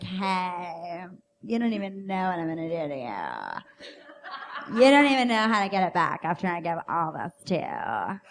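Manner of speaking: a hint of tipsy seduction; softly purred come-on. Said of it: "my impression of myself if I've been taken to Pound Town".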